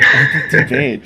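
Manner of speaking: excited. Real, not acted. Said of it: "that's awesome".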